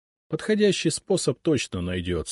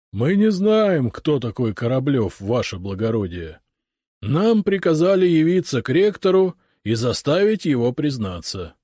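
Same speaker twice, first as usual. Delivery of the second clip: moaning ghost voice; 4 semitones higher, 5 dB louder than usual. Acted. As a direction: wail like a sorrowful ghost. Ghost officer answers.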